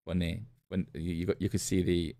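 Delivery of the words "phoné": "Phone" said low and soft as foh-NAY; Greek pronunciation. Shown as a demonstration. Preacher trying out the Greek word, "Phone" pronounced foh-NAY. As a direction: quietly repeat "Phone" with "nay" at the end. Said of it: "is pronounced phone".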